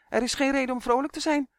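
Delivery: high, irritated elf scolding. A narrator's reading. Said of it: "riep hij geïrriteerd".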